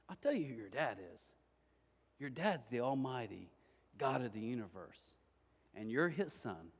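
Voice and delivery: a hushed, heartfelt pastor; tender pastor. Retold or imitated. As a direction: tell him gently, like a blessing. Pastor's tender answer to boy.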